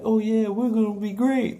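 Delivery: high, loud mock hype; mocking the team. Vlogger mocking the overconfident team, loud and high. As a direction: brag like a cocky team that's about to lose. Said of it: "they're like".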